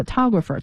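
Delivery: photographer with the beat on TO; pho-TO-grapher, second syllable stressed in photographer. Shown as a demonstration. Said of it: "涛是那个重音". (photographer 重音落在第二个音节)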